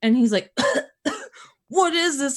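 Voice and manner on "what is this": mock puzzled question. Husband's puzzled question retold.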